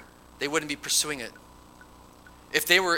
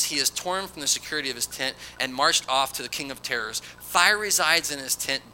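emphatic, declaimed Bible verse; scripture reading. Acted. Preacher reads Bildad condemning the wicked, emphatic scripture reading. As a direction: proclaim the verse to the congregation.

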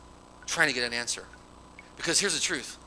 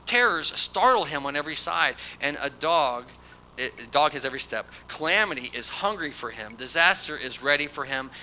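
emphatic, declaimed Bible verse; scripture reading. Acted. Preacher reads Bildad condemning the wicked, emphatic scripture reading. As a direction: proclaim the verse to the congregation.

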